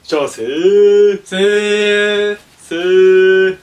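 slow, loud sing-song shop greeting; drawn-out shop welcome. Acted. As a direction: stretch out every vowel of the welcome. Clerk calling out shop welcome.

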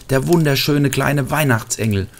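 sobbing. A narrator's reading. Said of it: "schluchzte Marlin".

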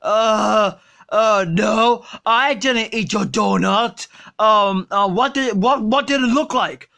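put-on sluggish, drunk and lazy; Homer Simpson. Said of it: "Did you eat my donut?".

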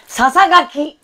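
ささがき said loud and high, each sound crisp; loud and clear. Shown as a demonstration. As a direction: shout ささがき to get it right. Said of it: "大きい声で言ったら言えますね".

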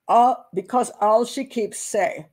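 slow faux Jamaican accent. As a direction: draw it out with a light Jamaican accent. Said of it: "faux bad Jamaican accent".

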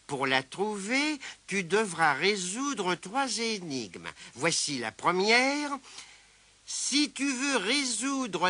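slow, deliberate letter reading; reading a letter aloud. A narrator's reading. Tirondin reads Mémé Croche's birthday riddle, reading aloud. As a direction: read it out carefully, lingering on the riddle. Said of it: "lut sa lettre à haute voix".

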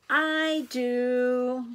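high, drawn-out little voice; baby pig voice. A narrator's reading. Baby pig asks to be tucked in, high little voice. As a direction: answer as an eager baby animal.

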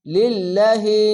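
লিল্লাহি with the long a drawn out; recited with stretch. Shown as a demonstration. Teacher demonstrating for students, drawn-out vowel. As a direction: chant লিল্লাহি, stretching the alif. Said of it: "খাড়া জবর এক আলিফ টেনে বলবেন".

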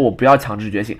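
quiet, level and unbothered; calm reply. Retold or imitated. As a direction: say it calmly, refusing without heat. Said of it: "很淡定的跟他说".

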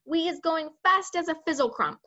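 a touch of eager storybook giant; lightly voiced giant. A narrator's reading. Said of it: "the B F G said".

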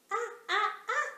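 put-on girl shrieks at the ants; shouted. A narrator's reading. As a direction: yelp as ants crawl on you. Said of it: "shouted the little girl".

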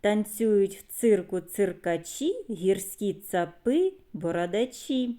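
put-on measured children's poem reading; verse recital. Teacher reciting a circus verse to children, measured recital. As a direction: recite it in short rhythmic phrases.

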